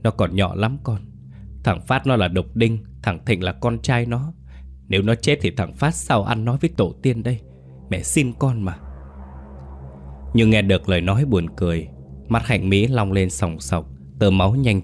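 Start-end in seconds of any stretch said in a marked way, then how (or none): 0.0-8.8 tearful, desperate begging; pleading mother. Acted. Mother begs her dead daughter-in-law, pleading. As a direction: beg the ghost to spare her grandson. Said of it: "Giọng bà Vân khẩn thiết vang lên".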